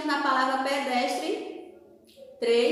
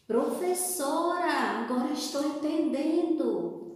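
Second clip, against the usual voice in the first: imagined pupil; 3 dB quieter than usual. Pretend. Voices the pupil's reply to teacher.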